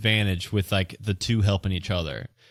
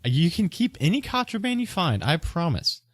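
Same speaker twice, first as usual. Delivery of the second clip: earnest merchant; 7 semitones higher than usual. Acted. Merchant reassures the suspicious investigators.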